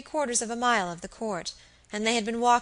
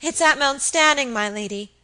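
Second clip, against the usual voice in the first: higher, loud frightened cry; 5 semitones higher, 8 dB louder than usual. Acted. Phoebe crying to her lady about the castle, loud alarm. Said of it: "cried Phoebe Marks".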